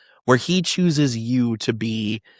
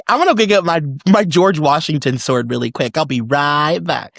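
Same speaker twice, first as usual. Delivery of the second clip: breezy dash off; 2 semitones higher, 3 dB louder than usual. Retold or imitated. S1 voices JFK Jr getting sword.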